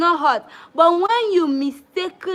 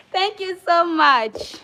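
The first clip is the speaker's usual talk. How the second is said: slow grateful thanks; 4 semitones higher, 5 dB louder, slower than usual. Real, not acted. Thanking a donor on stream.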